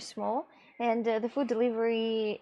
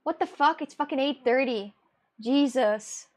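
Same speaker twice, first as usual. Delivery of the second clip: retold angry yell; 4 dB louder than usual. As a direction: replay being woken too early, half-shouting. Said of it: "And I screamed at him".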